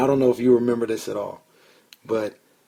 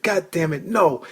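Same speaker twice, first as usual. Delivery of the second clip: higher, heated mock rant at the Giants; retold snapping rant; 6 semitones higher than usual. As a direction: replay the outburst, pitched up and fed up. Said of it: "I, I just snapped".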